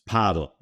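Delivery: paddle said the Spanish way, PAH-del; Spanish pronunciation. Shown as a demonstration. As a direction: open "ah" and first-syllable stress on paddle. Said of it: "P with an accent over the A".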